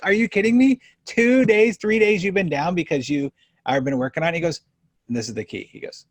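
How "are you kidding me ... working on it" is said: higher and louder in mock disbelief; incredulous outburst. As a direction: act stunned he waited days. Retold disbelief at doctor.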